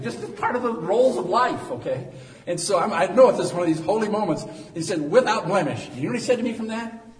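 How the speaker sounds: loud, high-pitched pulpit delivery; full-force preaching. Real, not acted. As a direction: preach it out to the whole church.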